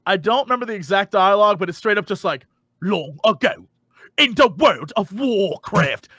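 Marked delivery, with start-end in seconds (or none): 2.8-6.1 slow, grave movie-trailer read; imitating an old game intro; epic narrator. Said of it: "accent that's supposed to be".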